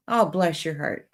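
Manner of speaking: sincere, kindly sympathy; meant nicely. Shown as a demonstration. Streamer showing chat the kind Southern blessing, meant nicely. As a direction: say it as if you mean it nicely. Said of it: "say it and mean it nicely".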